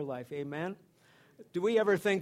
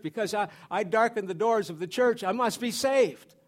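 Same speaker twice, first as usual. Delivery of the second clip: mock certainty, raised in pitch and volume; self-assured churchgoer; 4 semitones higher, 7 dB louder than usual.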